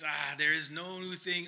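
attempted Scottish accent of an old pastor. Preacher quoting his old pastor to the congregation, shaky-attempt Scottish accent. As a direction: try a Scottish brogue, not too well. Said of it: "would say in a Scottish accent".

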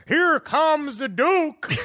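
slow, high drawn-out taunt; mock villain call. A prankster announcing himself, slow and sing-song. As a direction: stretch it out like a gleeful villain. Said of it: "especially if he goes".

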